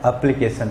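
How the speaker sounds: एप्लीकेशन said carefully as "aplikeshan"; correct pronunciation. Shown as a demonstration. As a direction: say एप्लीकेशन with a clear English a-sound at the start. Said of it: "शुद्ध pronunciation इसका होता है". (सही उच्चारण: एप्लीकेशन)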